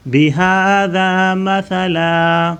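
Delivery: مَثَلًا with ث as soft th, no hissing s; soft tha. Shown as a demonstration. Teacher shows pupils the ث in مَثَلًا, soft th. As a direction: say مَثَلًا with a lisped th, not s. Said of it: "سٹی کی آواز نہیں نکالنی".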